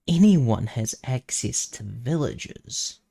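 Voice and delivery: slightly nerdy know-it-all objection; lightly voiced nerd pointing it out. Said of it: "I hear you say in a slightly nerdish voice".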